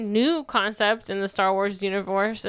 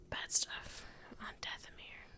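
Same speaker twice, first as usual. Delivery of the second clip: slow ominous whisper; whispered aside; 18 dB quieter than usual. Acted. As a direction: hush it like a dark secret.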